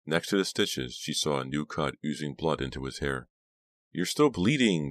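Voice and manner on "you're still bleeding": higher, slow, mildly concerned; soft concern. A narrator's reading. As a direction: point it out slowly with concern. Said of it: "told him softly".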